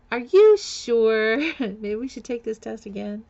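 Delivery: high, slow, stunned disbelief; retold disbelief. Told she is pregnant, asking the nurse again in stunned disbelief. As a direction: draw out the question in shock. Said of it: "I'm like".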